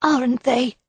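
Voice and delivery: bright eager question, lifted high. A narrator's reading. Mrs Gower answering the inspector, eager. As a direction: answer eagerly, a little too keen. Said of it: "she responded eagerly".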